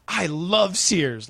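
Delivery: slow, syrupy sign-off; cheesy slow tag. Retold or imitated. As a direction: sell it to the camera. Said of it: "and he's like".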